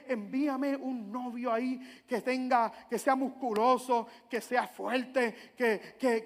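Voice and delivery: slow, drawn-out imitated prayer; dreamy wish list. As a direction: savour each wish, searching for the next. Imitating woman praying for boyfriend. (petición imitada, lenta y soñadora)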